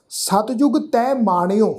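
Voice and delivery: ਸਤਿਜੁਗ ਤੈ ਮਾਣਿਓ as one phrase, then a rest; measured reading, halting after ਮਾਣਿਓ; pause after ਮਾਣਿਓ. Shown as a demonstration. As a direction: break only once ਮਾਣਿਓ is finished. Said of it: "ਮਾਣਿਓ ਤੋਂ ਬਾਅਦ ਵਿਸ਼ਰਾਮ ਚਿੰਨ੍ਹ ਲਗਾਵਾਂਗੇ".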